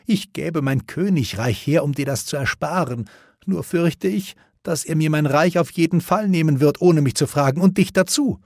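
put-on high, anxious old king; a father fearing the worst; worried king.

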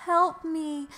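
high, drawn-out whine; whiny bored friend. Acted. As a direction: beg dramatically for rescue. Voices Mai whining.

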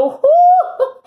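high, loud laughing whoop; excited whoop. Real, not acted. Reader whoops at the exciting card. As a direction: burst out with real joy. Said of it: "I'm getting excited".

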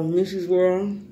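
slow, stretched-out name call; shout-out call. Real, not acted. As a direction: announce the name slowly and proudly. Calling out names in shout-outs.

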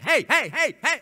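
loud, high barking yells; mock dog barking. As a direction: yap it out like the dog. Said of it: "he's just barking".

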